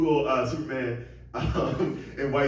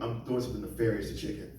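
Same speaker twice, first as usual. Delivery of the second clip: not high enough; 5 semitones lower, 8 dB quieter than usual. Shown as a demonstration. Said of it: "This is not high enough".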